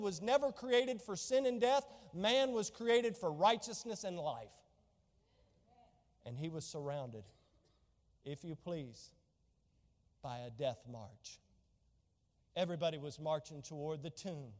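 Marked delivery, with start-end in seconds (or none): 6.2-14.5 hushed. Real, not acted. Preacher hushes as he describes the death march. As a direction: let it sink in quietly.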